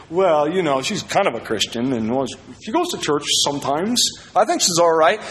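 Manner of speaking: hedging imitation of making excuses; mock rationalizing. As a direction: talk yourself into it, unconvinced. Voicing someone justifying a poor choice.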